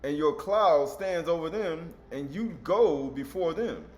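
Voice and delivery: slow, emphatic scripture declamation; preacher reading aloud, stretching the key words. Acted. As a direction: proclaim the verse in drawn-out, weighty phrases. Reads scripture aloud to congregation.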